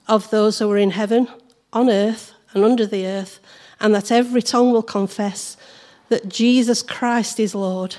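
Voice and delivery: scripture reading. Acted. Reads Philippians aloud.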